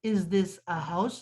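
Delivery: Is this a house? drawn out very slowly, word by word. Shown as a demonstration. Teacher repeating the English question for pupils, very slow. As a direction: stretch Is this a house? out so every word stands alone. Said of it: "تو is کے لیے ہم نے آ لگا دیا".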